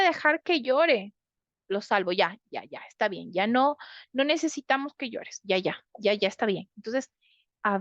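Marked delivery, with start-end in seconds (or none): 1.7-6.7 put-on calm the child down quickly, murmuring ya ya; soothing hush. Parent hushing a crying child. (tono tranquilizador, más grave y suave, calmando a un niño)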